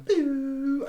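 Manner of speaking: high little "pew" sound effect; imitated falling-tear noise. Mimics a tear suddenly falling.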